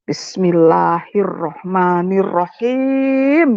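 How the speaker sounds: very slow, drawn-out recitation; hesitant prayer, intoned at a crawl; reenacted invocation. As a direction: stretch each syllable of the prayer. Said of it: "akhirnya dengan kata".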